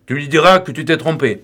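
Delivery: insistent rising anger. A narrator's reading. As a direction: push him harder, losing patience. Lupin pressing the stubborn boy.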